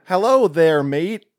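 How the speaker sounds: British actor doing bad American accent; slow, clumsy American accent. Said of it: "terrible American accents".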